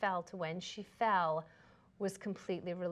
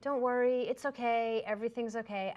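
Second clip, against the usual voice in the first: comforting reassurance; 4 semitones higher than usual. Retold or imitated. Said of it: "all those comforting things".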